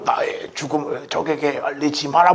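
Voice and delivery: a hint of the dying Admiral Yi, hushed. Dying admiral telling officers to hide his death, hushed. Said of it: "뭐 이렇게 하고".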